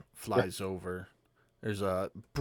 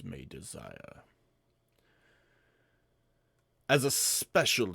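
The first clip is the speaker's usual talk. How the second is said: booming arrogant alien overlord. Acted. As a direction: boom it out like a slave-market host. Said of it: "deep, booming voice".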